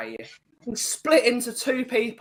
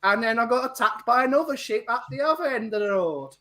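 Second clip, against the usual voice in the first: lilting, higher-pitched attempt at Welsh; botched Welsh accent; 4 semitones higher than usual. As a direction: do a Welsh accent that misses its mark. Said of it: "Was that Jamaican? ... a Welsh Yorkshireman".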